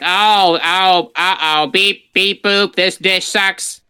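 robot maid voice. Retold or imitated. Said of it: "the robot maid comes in like".

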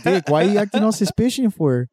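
mock a cholo misusing words; cholo imitation.

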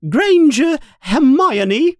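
high, loud stern teacher; teacher calling Hermione forward; loud roll call. Acted. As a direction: shout the name across the hall. McGonagall calling names.

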